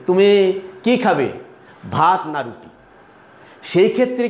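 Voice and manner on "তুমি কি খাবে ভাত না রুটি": choice question demo. Shown as a demonstration. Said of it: "আমি যদি তোমাকে এরকম বলি".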